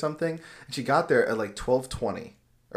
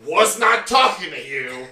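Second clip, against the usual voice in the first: imitating snippy lady; 4 semitones higher, 5 dB louder, slower than usual. Retells the lady's snippy comeback.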